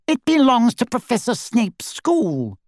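high, haughty correction; snide grandee, correcting. A narrator's reading. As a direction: put them right pompously. Snide portrait corrects Harry.

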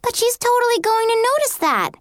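high, shocked protest. A narrator's reading. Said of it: "Erica looked shocked".

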